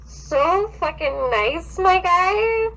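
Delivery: reading a creepy fanfic aloud, mildly dramatic; story reading. Acted. Friend reads a creepy fanfic aloud, mildly dramatic. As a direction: narrate the horror scene with light drama.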